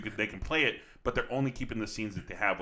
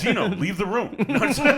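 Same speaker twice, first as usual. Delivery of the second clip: laughing; 12 semitones higher, 11 dB louder than usual. Real, not acted. Friends joking, laughing hard.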